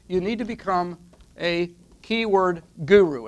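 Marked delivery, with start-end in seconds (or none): 1.4-3.3 "guru" drawn out and leaned on; slow down and land firmly on "guru"; stress on guru. Real, not acted. Presenter naming the first step to viewers, stress on "guru". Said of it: "Emphasis on gi-, guru".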